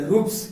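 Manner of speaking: रूप्स। with a dental s at the end. Shown as a demonstration. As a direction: say रूप्स। ending in a plain s, not sh. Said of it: "तो उसको डंटी सा".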